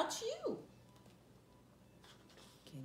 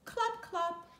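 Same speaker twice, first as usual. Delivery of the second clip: hoof clops; 7 semitones higher, slower than usual. Shown as a demonstration. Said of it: "like horse's feet".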